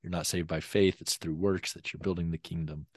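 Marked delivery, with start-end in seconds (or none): none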